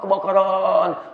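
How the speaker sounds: kebakaran stretched very slowly; drawn-out kebakaran. Shown as a demonstration. Preacher stretching kebakaran to make the fire vivid. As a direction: draw out every syllable of kebakaran. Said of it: "Tiba-tiba kebakaran".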